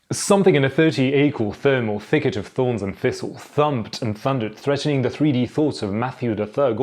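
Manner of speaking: rattled off quickly without breaks. Shown as a demonstration. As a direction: race through the tongue twister. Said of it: "Can you do it faster?".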